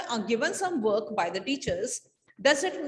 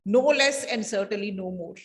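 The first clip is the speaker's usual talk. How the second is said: a lightly mimicked throaty schoolmaster, slightly lower; throaty teacher mimicry; 4 semitones lower than usual. Pupil mimics his teacher to Frank, lightly throaty and low. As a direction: gently imitate an old-fashioned master, low and measured. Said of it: "Taplow in a throaty voice".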